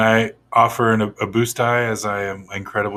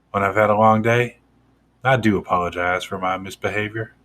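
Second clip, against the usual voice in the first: contrite apology. Acted. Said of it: "I'm gonna act really contrite".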